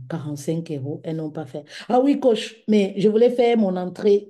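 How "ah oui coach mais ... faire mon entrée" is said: plays the whining client begging the coach; imitating a client. Client voiced pleading with coach.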